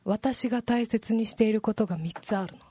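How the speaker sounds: 落ち着いた艶っぽい女優口調; もったいぶって色っぽく切り出す; セクシーな一言. Pretend. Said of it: "ちょっとセクシーな". (セクシーに語る女優のモノマネ)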